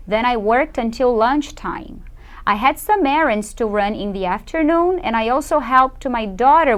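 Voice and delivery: slow reading aloud. Shown as a demonstration. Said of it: "Eu vou ler pra vocês".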